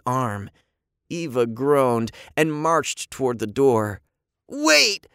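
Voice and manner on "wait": high, loud call. A narrator's reading. Boy calling his sister back, high call. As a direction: call after someone to stop. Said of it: "Andy called".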